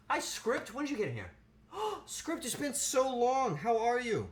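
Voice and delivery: high-pitched, delighted hello with a gasp; excited greeting. Real, not acted. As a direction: greet a long-lost friend, high and gushing. Greets a viewer long unseen.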